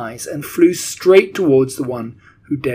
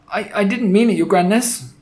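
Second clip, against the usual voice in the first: high, panicked pleading; frightened, high-pitched underling; cried; 8 semitones higher, 4 dB louder than usual. A narrator's reading. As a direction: stammer an apology to your feared ruler. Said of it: "the witch cried".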